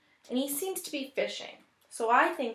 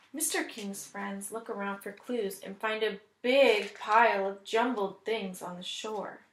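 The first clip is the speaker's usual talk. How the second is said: story narration. Acted. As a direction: read it like a picture book to children. Teacher reads story aloud.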